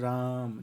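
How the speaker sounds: राम with the आ stretched extra long; prolonged vowel. Shown as a demonstration. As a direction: hold the vowel in राम well past a normal long vowel. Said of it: "उसको हम बोलते हैं प्लुत स्वर".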